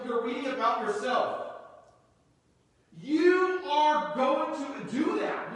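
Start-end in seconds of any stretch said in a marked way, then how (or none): 3.0-5.5 a loud, slow, insistent declaration; shouted promise. Real, not acted. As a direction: shout it to the church, slowly. Preacher exhorting congregation.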